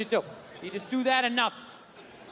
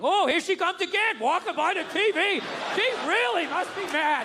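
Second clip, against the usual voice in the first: mock sports commentary; 5 semitones higher than usual. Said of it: "I just start commentating".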